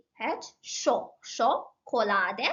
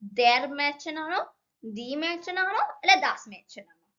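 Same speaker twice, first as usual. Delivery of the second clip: quiz question; 4 semitones higher, much slower than usual. Shown as a demonstration. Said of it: "നമ്മൾ എന്താ പറയാ".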